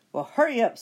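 impatient witch. Acted. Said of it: "said Bony Legs".

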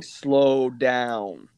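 drawn-out plea to slow down; Billy Madison. Retold or imitated. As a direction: stretch both words out, mock-instructing. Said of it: "like Billy Madison".

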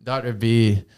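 attempted Louisiana accent, lightly put on; imitating a friend's Louisiana accent; Doctor B impersonation. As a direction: try a soft Louisiana lilt on the name. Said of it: "I can't do his impersonation".

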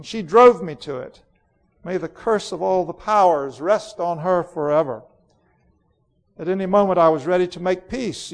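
imperious queen Jadis, bitter. Acted. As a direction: rage coldly against the sister. Queen's long tirade.

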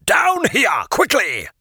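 loud, urgent hurry-up call. Acted. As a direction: call them down fast.

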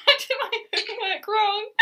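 loud, high-pitched words through laughter; real amused laugh in the voice. Real, not acted. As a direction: tell it while cracking up. Laughing at own retold story.

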